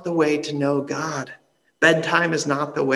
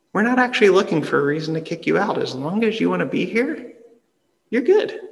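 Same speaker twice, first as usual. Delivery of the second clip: higher, quicker friendly reassurance; reassuring a newcomer; 5 semitones higher than usual. Retold or imitated. Pastor reassuring an anxious new member, higher and brisk. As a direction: brightly put a nervous newcomer at ease. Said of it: "I always just wanna say to them".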